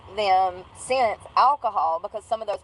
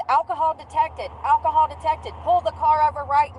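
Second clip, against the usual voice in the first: robotic device voice; 5 semitones higher than usual. Retold or imitated. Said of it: "It says".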